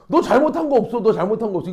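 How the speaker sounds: mock reassurance, starting high, laugh creeping in; exaggerated sympathy. Friend comforting an upset classmate, playfully exaggerated sympathy. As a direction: insistently take the friend's side, hammed up. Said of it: "동조해줘야지".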